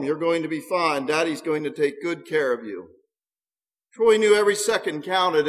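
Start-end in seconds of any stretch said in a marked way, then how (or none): 0.0-2.9 forced calm. Acted. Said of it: "trying to keep his voice calm".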